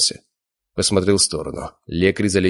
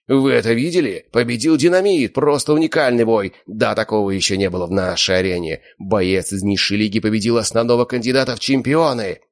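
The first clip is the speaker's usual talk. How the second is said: excited announcer; 4 semitones higher than usual. Acted. Arena host announces the winner.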